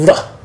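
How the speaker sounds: "R" as a drawn-out attempt at a rolled r; attempted trilled R. Shown as a demonstration. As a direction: try to trill "R" without quite managing it. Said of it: "I can't do the trilled R".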